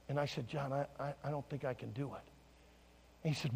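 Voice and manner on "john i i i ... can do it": low and quiet, stumbling slightly; self-doubting reply. Retold or imitated. Pastor telling John he can't do it, doubtful. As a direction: admit it softly, unsure of yourself.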